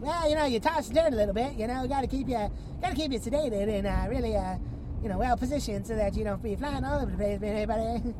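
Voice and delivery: rambling, lightly hammed Canadian accent; Canadian scientist. Canadian scientist excusing the chains to the patient, mock Canadian accent. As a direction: explain it away as a mock Canadian. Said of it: "Canadian scientist".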